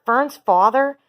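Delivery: a pig sobbing in disbelief. A narrator's reading. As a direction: Wilbur sobs at the news. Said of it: "sobbed Wilbur".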